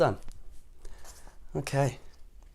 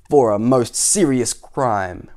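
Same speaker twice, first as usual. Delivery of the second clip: soldier's reply; 5 dB louder, much slower than usual. Acted. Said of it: "replied the soldier".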